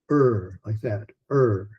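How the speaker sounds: a drawn-out low "er", the R sound on its own; R sound demo. Shown as a demonstration. Teacher demonstrating the R sound to students, a soft drawn-out "er". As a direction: hold the "er" low and soft to show the R. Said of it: "that sound".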